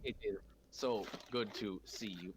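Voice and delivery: glitchy robotic mic audio. Real, not acted. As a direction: voice sounds like a robot. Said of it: "Why do I sound like a robot now?".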